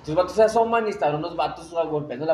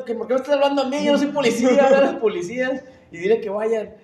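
mock irritated; 5 semitones higher, 4 dB louder than usual. President annoyed on phone.

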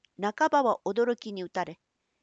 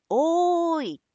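long, high, loud hail; calling out; 9 semitones higher, 6 dB louder, much slower than usual. Acted. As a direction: shout it across the night. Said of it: "とまた聞こえた".

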